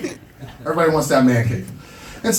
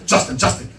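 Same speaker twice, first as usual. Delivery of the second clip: hushed mom; 5 semitones higher than usual. Retold or imitated. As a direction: breathe the name almost silently. Mom gently scolding her son.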